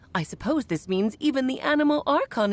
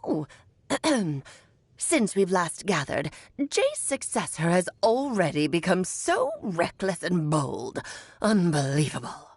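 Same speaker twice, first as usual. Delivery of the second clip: put-on old hag voice; 3 semitones lower than usual. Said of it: "talking just like the old hag".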